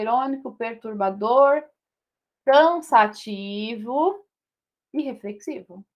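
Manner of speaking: adjetivos esticados e lentos; enumeração pausada. Shown as a demonstration. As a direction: alongue cada adjetivo da lista. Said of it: "Posso colocar aqui qualquer outro adjetivo". (professora ditando os adjetivos bem devagar)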